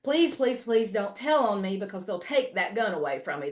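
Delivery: mock-plead like a cousin afraid of being told on; imitated begging. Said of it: "He just begs me".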